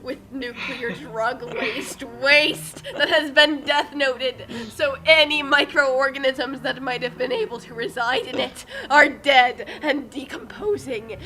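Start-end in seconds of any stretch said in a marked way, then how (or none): 2.2-11.2 laughing rant. Real, not acted. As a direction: rant through real laughter, slightly louder. Laughing through an absurd rant.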